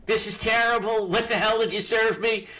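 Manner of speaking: mock outraged complaint; guns blazing. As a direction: re-enact a customer storming back in. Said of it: "guns blazing".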